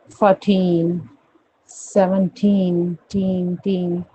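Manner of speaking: "फोर्टीन, सेवनटीन" with long stressed "टीन"; drilled "टीन", drawn out and separate; stress on TEEN. Shown as a demonstration. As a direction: stretch every "टीन". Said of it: "ट पे".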